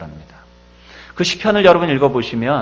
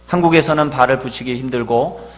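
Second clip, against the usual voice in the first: loud, higher, desperate prayer to God; crying out in prayer; 4 semitones higher, 7 dB louder than usual. Retold or imitated. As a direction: pour it out as a desperate cry to heaven. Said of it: "부르짖어 기도합니다". (하나님께 절규하듯 높고 크게 부르짖는 기도)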